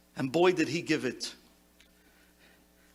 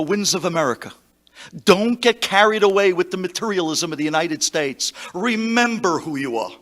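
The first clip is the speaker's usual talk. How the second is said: stirring command; 6 dB louder than usual. Retold or imitated. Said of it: "and he told us".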